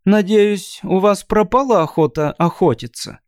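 put-on high chirping girl voice; chirpy thin voice. Shatra's voice continued.

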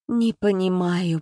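slow dazed groan; understated faint lament; mild moan. Acted. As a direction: moan it out, lost. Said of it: "простонала женщина".

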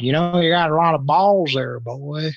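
hint of an old teacher scolding; lightly voiced teacher; mock stern teacher. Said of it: "But he said".

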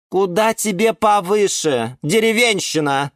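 high, scornful orchid; high-pitched haughty put-down; snorting scorn. A narrator's reading. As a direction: sneer down at a country bumpkin. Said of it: "фыркнула орхидея Галатея".

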